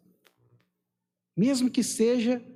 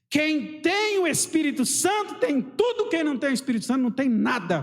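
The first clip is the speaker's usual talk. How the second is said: high, stretched-out proclamation, then quicker; emphatic preaching; 5 semitones higher than usual. Real, not acted. Preacher declaring the Holy Spirit to the congregation, emphatic. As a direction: proclaim it to the whole church.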